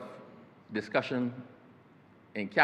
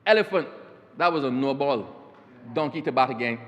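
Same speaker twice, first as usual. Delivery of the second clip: calypso umpire call; 4 dB louder than usual. Retold or imitated. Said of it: "he said".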